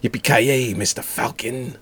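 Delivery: flat, deadpan dubbed line; bad acting. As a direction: deliver it like a cheesy movie dub. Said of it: "the guy delivers it like that".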